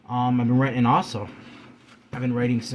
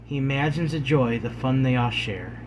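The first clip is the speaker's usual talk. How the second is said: measured poetry reading with pauses between lines; poem recitation. Acted. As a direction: recite in short, separate phrases, easing off at line ends. Reads second poem aloud.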